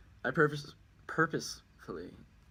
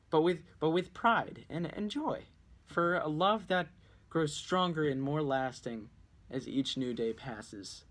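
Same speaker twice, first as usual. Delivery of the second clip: high, louder declaration of proud love, easing down; proud and joyful; 5 semitones higher, 4 dB louder than usual. Acted. Husband declaring his lasting love, proud and joyful. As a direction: declare your love proudly, then let it settle. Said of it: "I tell you this not with embarrassment".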